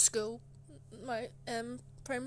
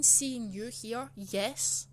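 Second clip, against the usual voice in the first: curt teacher; 3 dB louder, much slower than usual. Retold or imitated. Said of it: "What do you mean".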